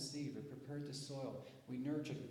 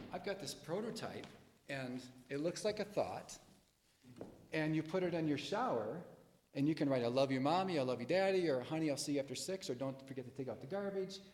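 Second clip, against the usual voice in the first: louder, eager and bursting with enthusiasm; excited pitch; 2 semitones higher, 7 dB louder than usual. Shown as a demonstration. Speaker showing the audience an excited pitch, loud and eager. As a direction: sell it like the best idea ever. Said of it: "Now I say".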